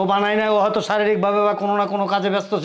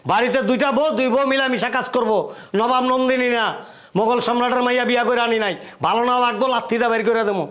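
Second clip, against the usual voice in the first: raised, higher-pitched domestic tirade; angry ultimatum; 3 semitones higher than usual. Acted. Husband warning his wife about running the house, angry. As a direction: lay down the law, voice pitched up.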